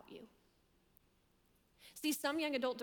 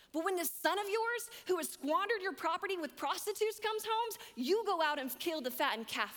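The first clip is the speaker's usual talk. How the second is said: put-on higher, louder, bitter outburst of the older brother; offended brother; 6 semitones higher, 4 dB louder than usual. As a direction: let the resentment rise as he accuses his father. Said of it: "Do you hear the offense in his voice?".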